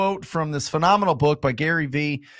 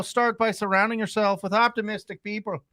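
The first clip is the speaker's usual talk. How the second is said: hammed-up Scottish-Irish lilt; mock Scottish accent. Host rereads the quote on request, mock Scottish accent. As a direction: read it in a leprechaun-like Scottish brogue. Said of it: "read it in a Scottish accent".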